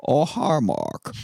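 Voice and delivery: lightly voiced odd accented man; a hint of Tommy Wiseau. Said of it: "I was trying to figure out what he sounded like".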